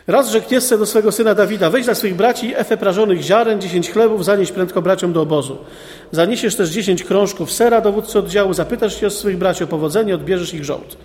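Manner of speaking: measured, solemn reading of the Bible text; scripture reading. Acted. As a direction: read it like the day's lesson. Reads the Bible passage aloud. (uroczyste czytanie Pisma)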